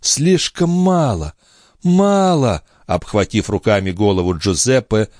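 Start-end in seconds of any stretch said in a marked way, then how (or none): 0.0-2.6 higher, slow, passionate cry; young woman exclaiming passionately. Acted. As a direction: cry out for more love. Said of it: "воскликнула девушка".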